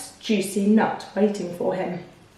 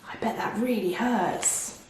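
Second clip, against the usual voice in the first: soft sympathy; 8 dB quieter than usual. Acted. Mouse pities the crocodile.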